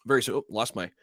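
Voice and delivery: breathless, catching air mid-sign-off; out of breath. Real, not acted. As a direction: gasp for breath between words. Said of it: "lost my breath there for a minute".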